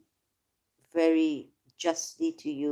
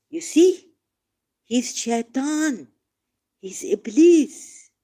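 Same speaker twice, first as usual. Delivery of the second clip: outburst; 6 semitones higher, 6 dB louder, slower than usual. Real, not acted. Denouncing God as the devil.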